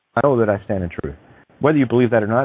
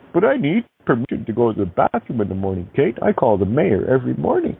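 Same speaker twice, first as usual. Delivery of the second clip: put-on pleading voice, sneering; mocking whiny caller; 3 semitones higher than usual. Host mocking a caller who asks permission, put-on whine. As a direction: act out the timid rule-follower with scorn.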